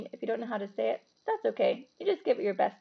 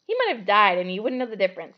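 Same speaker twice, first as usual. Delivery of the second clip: disgust; 4 dB louder than usual. Acted. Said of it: "said Ron in disgust".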